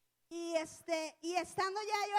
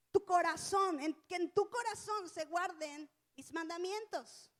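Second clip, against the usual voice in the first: 1 emphatic scripture reading; 3 dB louder than usual. Acted. Preacher quoting scripture emphatically.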